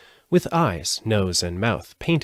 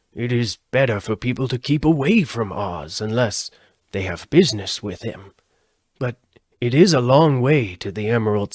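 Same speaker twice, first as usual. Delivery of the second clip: a hint of a kindly Munchkin, warning; earnest, slightly raised character voice; lightly voiced Boq; 3 semitones higher, 4 dB louder than usual. A narrator's reading.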